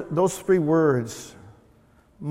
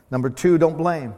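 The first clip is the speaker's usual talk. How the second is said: emphatic; 3 semitones higher, 7 dB louder than usual. Shown as a demonstration. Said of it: "pastor repeats point, louder".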